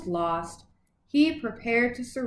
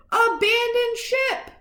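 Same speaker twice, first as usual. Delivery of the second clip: order; 10 semitones higher than usual. A narrator's reading. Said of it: "The Admiral himself gave the order".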